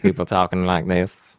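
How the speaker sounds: slow, low mock-Southern drawl; bad Southern accent. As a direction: draw it out in a half-hearted Southern accent. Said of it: "doing bad Southern accents".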